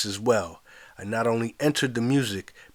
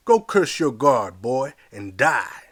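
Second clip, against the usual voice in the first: moaning; 4 dB louder, slower than usual. Acted.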